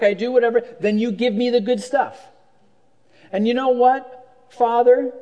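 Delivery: a put-upon son laying out his deal to Father; entitled elder son. Retold or imitated. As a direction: play the son who thinks he's earned it. Pastor voices entitled elder son.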